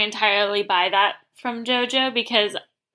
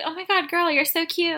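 high, gushing mock compliment; gushing girl talk; 6 semitones higher than usual. Tayshia greeting JoJo on her scooter, high gushing squeal. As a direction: squeal over a friend's outfit.

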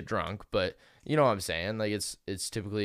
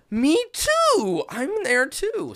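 high squeaky fan voice; 10 dB louder, much slower than usual. Retold or imitated. Mimicking fan at concert.

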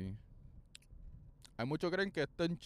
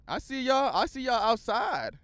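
put-on voice; 8 semitones higher, 4 dB louder than usual. Greeting fans playfully.

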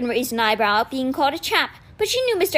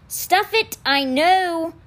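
annoyed snap; 5 semitones higher, much slower than usual. A narrator's reading. Annoyed at nagging blackboard.

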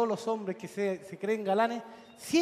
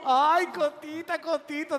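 squeaky little dog voice; 6 semitones higher, slower than usual. Pretend. Friend imagining the two dogs talking, high squeaky coo.

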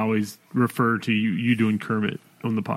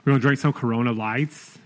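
put-on a light sorority girl voice; sorority blonde; 2 semitones higher than usual. Pat asked for a girl voice, sorority blonde. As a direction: gush like a college party girl. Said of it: "Sorority Blonde".

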